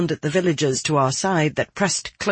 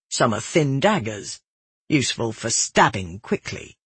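measured, mildly oratorical address; lightly voiced instructor making a prepared speech; carefully thought-out speech. A narrator's reading. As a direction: deliver it like a considered little speech. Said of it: "sounded carefully thought out, like a speech".

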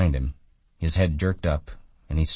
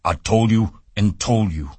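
put-on higher, louder, nagging old woman; scolding aunt in Lennie's voice; 6 semitones higher, 6 dB louder than usual. A narrator's reading. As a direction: scold him like a stern aunt. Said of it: "it was in Lenny's voice".

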